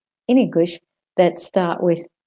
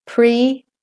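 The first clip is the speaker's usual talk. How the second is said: "Predisposed" higher, split by pauses; syllable by syllable; 5 semitones higher, faster than usual. Shown as a demonstration. Teacher demonstrates for learners, "Predisposed" syllable by syllable. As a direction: break "Predisposed" into pre, dis, posed.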